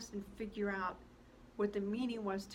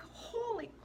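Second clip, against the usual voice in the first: shocked shriek; 14 semitones higher than usual. Acted. Girl shrieks "Holy" at Jan who jumped in. Friend jumps into the hole.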